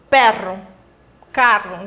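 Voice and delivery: "perro" and "carro" with a long rolled RR; Spanish RR demo; strong double R. Shown as a demonstration. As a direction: trill the double R hard. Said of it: "falar o R forte".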